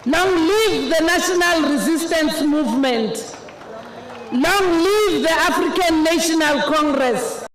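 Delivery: rally the crowd, word by word; booming ideological slogans. Real, not acted.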